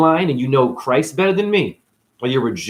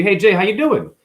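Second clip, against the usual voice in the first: high mock cashier hello; cheery store clerk voice; chirpy clerk greeting; 8 semitones higher, 4 dB louder than usual.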